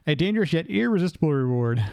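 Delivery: rough attempt at South African accent; loosely imitated South African accent. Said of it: "closest thing I can get to South African".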